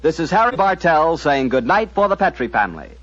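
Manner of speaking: brisk radio announcer over music; announcer credits. Acted. Announcer signing off the broadcast, formal announcer read. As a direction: read the closing credits crisply.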